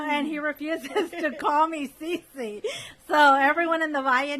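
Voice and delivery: giggling as she complains he won't use her radio name; laughing. Real, not acted. Telling listeners her husband refuses to say C C, laughing.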